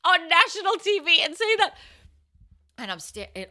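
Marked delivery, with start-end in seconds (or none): 0.0-1.7 very high, loud, half-crying mock wail; hammed-up desperate wailing; wailed protest. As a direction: protest in comic despair. Wails her protest to friends.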